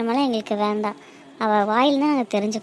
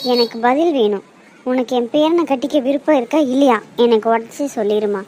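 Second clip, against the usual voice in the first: louder, firm demand for an answer; stern demand; 2 semitones lower, 5 dB louder than usual. Acted. Grandmother louder, demanding the girl answer her. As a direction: press her hard, voice raised.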